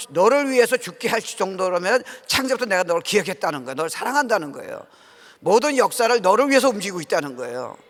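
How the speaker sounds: preaching at full force. Acted. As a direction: drive the message home to the congregation.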